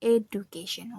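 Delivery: Education with plain "du", no blend; Indonesian-style D. Shown as a demonstration. Student repeats Indonesian habit, plain D in Education. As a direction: keep a separate D in Education, "eh-doo-kay-shun". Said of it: "with D in Indonesian".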